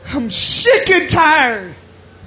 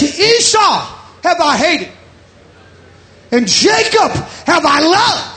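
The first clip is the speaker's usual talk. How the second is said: scripture reading; 6 semitones higher than usual. Acted. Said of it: "It says".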